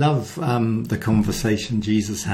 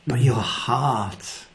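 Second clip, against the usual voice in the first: whisper; much slower than usual. Real, not acted. Intimate point in the sermon.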